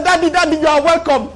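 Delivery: high-pitched, acted childlike greeting; eager child welcome. Child running out to welcome Daddy, eager greeting. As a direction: pipe up eagerly like a child at the door.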